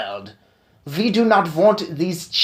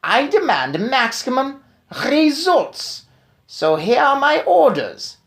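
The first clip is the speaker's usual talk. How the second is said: put-on much higher, louder, accented commands; commanding witch tirade; 9 semitones higher, 4 dB louder than usual. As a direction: order the destruction of children. Witch issues her orders.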